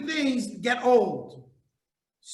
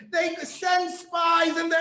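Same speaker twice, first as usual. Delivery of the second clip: rising excitement; 7 semitones higher, 6 dB louder than usual. Real, not acted. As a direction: voice climbing higher and louder with excitement. Preacher building to climax.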